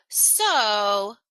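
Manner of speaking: loud, isolated SO; filler so. Shown as a demonstration. Presenter showing a filler word, SO hung before a pause. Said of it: "then there's a huge pause".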